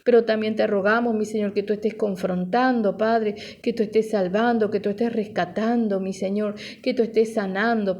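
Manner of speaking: steady, flowing congregational prayer; fervent prayer. Real, not acted. Pastor asking the Father to minister to listeners, fervent prayer. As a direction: pray earnestly in an unbroken stream of petitions.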